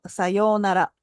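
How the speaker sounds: Sayonara with the accent on the yo. Shown as a demonstration. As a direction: lean on the yo in Sayonara. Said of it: "the accent falls on the yo".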